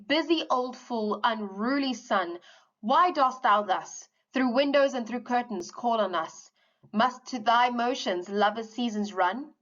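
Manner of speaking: slow, measured poem recital; poem reading. Acted. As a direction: read the verse with weight. Reads the poem aloud.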